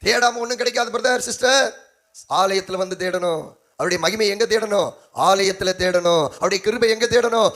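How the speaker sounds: insistent pulpit delivery; emphatic sermon call and answer; exhorting preacher. Acted. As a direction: press the point on the congregation. Exhorting the congregation.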